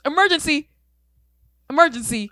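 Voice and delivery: very high, loud siren-like screaming; blaring, repeated shriek, hammed-up; imitated scream. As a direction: mimic a woman screaming the alarm. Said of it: "that's exactly how she screamed it".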